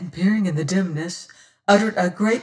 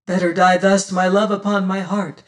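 fervent cry; 5 dB louder than usual. Acted. Running, carrying her, panting.

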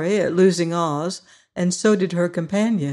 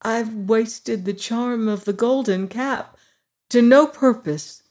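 almost crying; 5 semitones higher than usual. Acted. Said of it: "almost ready to cry".

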